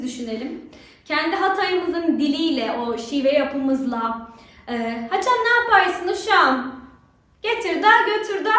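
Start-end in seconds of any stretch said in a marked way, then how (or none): 5.1-8.5 Black Sea Turkish accent, voiced a bit higher and livelier. Shown as a demonstration. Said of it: "Bu mesela Karadeniz insanlığı şivesi". (Karadeniz şivesiyle, biraz tiz ve canlı)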